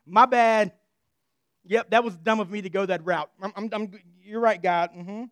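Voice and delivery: loud, laughing backpedal; chastened guy admitting he blew it; sheepish Job. Retold or imitated. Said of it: "and Job says".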